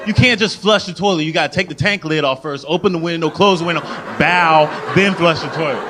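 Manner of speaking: high, loud, exasperated scolding; host angrily scolding guest Cheryl in a high, loud voice; mad host. Retold or imitated. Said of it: "Then they get mad at you".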